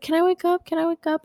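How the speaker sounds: put-on high, pleading little kid voice; imitated child asking. Child asking sleeping mother again, imitated kid voice. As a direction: play a child pestering mom, pitched well up.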